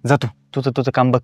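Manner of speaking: testy excuse turning into dismissal; irritable. Acted. Husband telling wife not to nag him in the morning, irritably. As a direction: sound annoyed at being pestered. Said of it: "एवढं का चिडचिड करताय".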